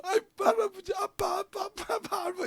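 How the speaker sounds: put-on high babbling toddler voice. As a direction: coo like a small grandchild. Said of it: "이렇게 하니까 좋다는 거예요".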